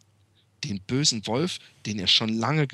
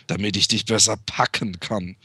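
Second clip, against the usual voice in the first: lower, sly wolf answer; 5 semitones lower than usual. Acted.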